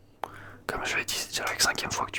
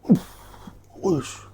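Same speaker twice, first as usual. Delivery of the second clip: sudden loud startled exhale; loud gasp of surprise; 8 semitones lower, 9 dB louder, much slower than usual. Acted. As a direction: jump at the shock. Finds friend in fridge.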